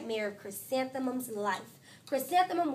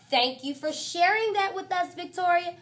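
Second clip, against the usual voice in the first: a lightly higher, louder teacher voice; patient teacher; 6 semitones higher, 5 dB louder than usual. Acted. Missus Chudd answers Victoria in a lightly raised teacher voice. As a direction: thank her politely, a touch tired.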